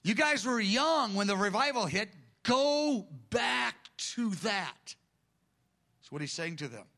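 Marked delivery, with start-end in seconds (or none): 0.0-4.9 urging elders. Retold or imitated. Jesus urging the elders back, raised and slowed. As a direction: push it up, then stretch the last line slowly. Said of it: "He's talking to the messengers".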